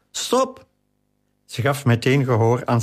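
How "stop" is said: a high, breathless squeal through giggles; a ticklish boy begging it to stop, much higher; boy squealing through laughter while being tickled; laughing plea. A narrator's reading. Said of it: "Darius lachte tot hij er buikpijn van had".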